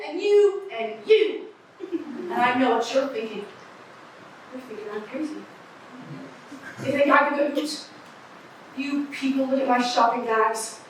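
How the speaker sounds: a lightly voiced raspy street eccentric rambling to passersby; raspy street oddball. Eccentric on the street corner addressing the crowd, lightly raspy. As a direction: play a scratchy-voiced crank holding court on the corner. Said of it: "You don't like my raspy voice".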